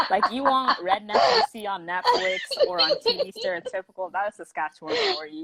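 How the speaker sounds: talking through real laughter, high-pitched; laughing. Real, not acted. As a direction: crack up while making your point. Joking about redneck province, both laughing.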